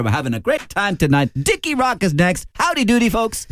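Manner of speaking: high, cheery American-style host patter; American-style Gay Byrne. Retold or imitated. Impressionist doing Gay Byrne's seventies American phase, high and bouncy. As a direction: ham up the showbiz compere with Yankee flair. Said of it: "American gay".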